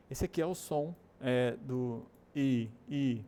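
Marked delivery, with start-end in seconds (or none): 2.9-3.2 "I" as a long ee sound; English long vowel. Shown as a demonstration. Teacher isolating the sound, "I" as long ee. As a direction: hold "I" as English ee. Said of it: "é entre o I e o E".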